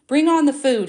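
commanding call, pitched high and loud; loud order. A narrator's reading. Joseph's loud command for the food. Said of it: "he ordered".

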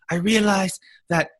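hammed-up Fluffy bit; Fluffy impression. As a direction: do Gabriel Iglesias telling a Hawaii joke. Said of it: "that right there is a Fluffy impression".

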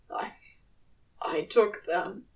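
thick, choked whisper; said thickly. Acted. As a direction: force the confession out, barely voiced. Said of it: "he said thickly".

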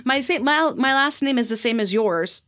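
mock her own exasperation at the uncle; exasperated retort. She scolds uncle who shares her last name, high incredulous. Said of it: "And I was like".

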